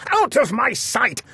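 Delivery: very high, slow angry shout; a king at his wits' end; raging king. Acted.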